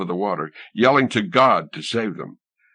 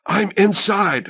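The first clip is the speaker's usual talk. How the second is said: much higher, slow thrilled cry; thrilled shout of triumph; breathless excited announcement; 11 semitones higher, slower than usual. A narrator's reading. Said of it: "Helene's voice was high, excited".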